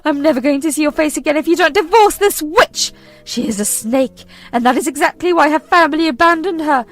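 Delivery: high, loud venomous mother; furious demand. Acted. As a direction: spit out the ultimatum.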